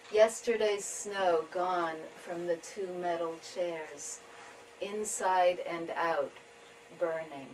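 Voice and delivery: measured tanka reading with pauses between lines; poetry reading. Acted. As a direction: read each image slowly, letting it settle. Reads own tanka.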